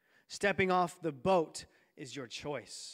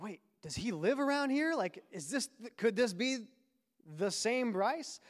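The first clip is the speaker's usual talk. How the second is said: higher, puzzled wondering, stretched at the end; hopeful disbelief; 5 semitones higher than usual. Retold or imitated. Lost boy wondering if his friend lives here, mock amazed. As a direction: act out a kid's dawning amazement.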